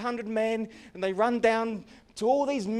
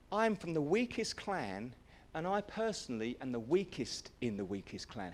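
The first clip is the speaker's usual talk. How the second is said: self-pitying mumble; 4 semitones lower, 7 dB quieter than usual. Acted. Gideon belittling himself before heaven, small and quiet. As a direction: shrink into the words.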